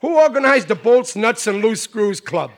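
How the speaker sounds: proud boasting. Acted. Riley boasts about his club.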